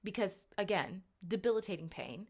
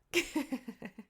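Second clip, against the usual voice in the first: giggle; 6 semitones higher than usual. Real, not acted. Laughing at her own smutty thought.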